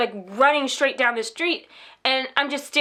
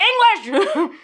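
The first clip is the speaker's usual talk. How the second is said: exasperated cry; 8 semitones higher, 4 dB louder than usual. Retold or imitated. Exasperated reply to policeman.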